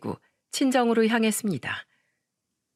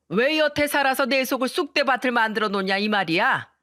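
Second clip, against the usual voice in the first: spiteful mother-in-law; 3 semitones higher than usual. Acted. Mother-in-law cursing her daughter-in-law, sneering. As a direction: spit out insults at the daughter-in-law.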